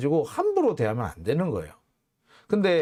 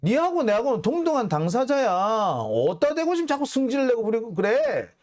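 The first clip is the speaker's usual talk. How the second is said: high-pitched mock scolding of an opponent; acted angry retort; 6 semitones higher than usual. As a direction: play the fed-up lawyer telling someone off, pitch raised. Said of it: "변호인 입장에서는 정말 열받죠". (열받은 변호인 흉내, 높게 쏘아붙이듯)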